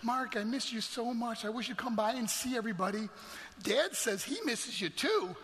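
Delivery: lightly voiced little sister. Brother recalls sister's voicemail, lightly voiced longing. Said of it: "she'd leave me the longest messages".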